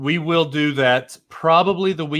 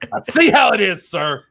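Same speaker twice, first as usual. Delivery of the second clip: higher, louder mock indignation; mock offended; 4 semitones higher, 3 dB louder than usual. Co-host teasing John over the ad read: mock offended. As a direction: play it hurt and huffy.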